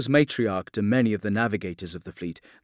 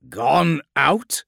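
loud, raised echo with a rising end; incredulous question; 6 semitones higher, 10 dB louder than usual. A narrator's reading. The Lion questioning the navigator's news, incredulous. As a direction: throw the words back in disbelief.

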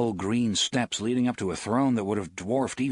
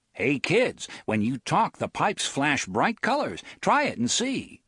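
toy salesman; 4 semitones higher than usual. Retold or imitated. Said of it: "like watching a salesman demonstrate a child's toy".

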